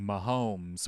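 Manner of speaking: mock French accent. Joking about a French-speaking broadcast, mock French accent. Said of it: "with a French accent".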